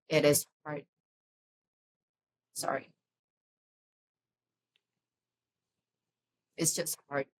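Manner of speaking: holding back real crying; real tearful. Real, not acted. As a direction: voice catching on real tears. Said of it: "right now, I just suddenly load up emotion".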